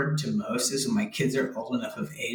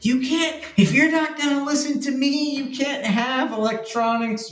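imitating a frazzled TV dad, much higher; mock the dad snapping at his kids; Phil Dunphy losing it; 13 semitones higher than usual. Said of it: "he loses his crap".

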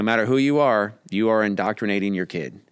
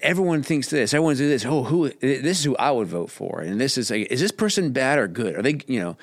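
put-on higher, excited kid voice rattling off what classmates say; imitating my kid; 5 semitones higher than usual. Parent mimics child reporting school talk, higher kid voice. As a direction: play the chattering child, pitched up. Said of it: "my kid will come back and be like".

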